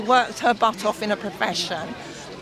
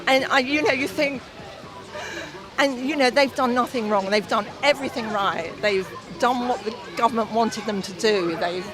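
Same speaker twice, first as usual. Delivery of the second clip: choked up. Real, not acted. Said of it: "Sorry, I'm getting choked up here".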